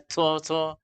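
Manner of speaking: TO, TO with air puffed after each T; berangin. Shown as a demonstration. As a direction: aspirate the T in TO, TO. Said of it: "ada angin keluar gitu". (TO dengan angin keluar)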